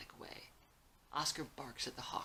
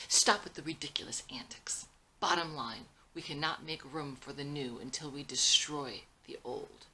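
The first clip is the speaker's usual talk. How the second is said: curt dismissal; 5 dB louder than usual. Acted. Son cuts off father's apology.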